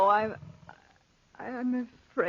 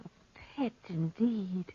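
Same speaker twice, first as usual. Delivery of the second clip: whispered; 2 semitones lower, 7 dB quieter, slower than usual. Acted. Whispered scorn beside the panther.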